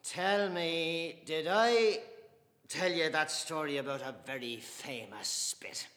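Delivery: loud, high, swelling pride; proud defiance. Acted. Mr Casey defending his Catholic faith to Dante, proud and loud.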